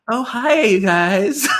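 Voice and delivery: high, loud, chirpy hello; overly sweet greeting. Retold or imitated. Gabrielle greeting the sisters she just fought with, high and gushing. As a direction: gush the hello like a sudden best friend. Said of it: "just, like, so sweet".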